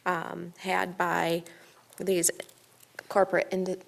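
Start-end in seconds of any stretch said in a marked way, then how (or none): 2.0-3.8 talking with a retainer in; words slurred round a retainer; wearing a retainer. Real, not acted. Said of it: "sorry, I have a retainer".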